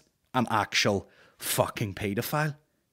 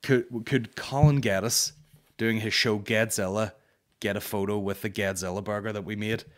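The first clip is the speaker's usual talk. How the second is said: mock musing. Comedian mocking the promoters' thinking, sarcastic. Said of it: "I wonder would".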